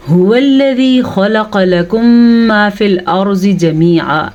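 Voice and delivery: slow, measured Quranic recitation; tajweed recitation. Shown as a demonstration. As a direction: recite the verse with held nasals and long vowels. Recites the verse before translating it.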